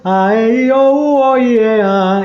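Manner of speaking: exaggerated vowels around a pencil; pen in teeth. Shown as a demonstration. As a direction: overdo the vowels, pencil in mouth.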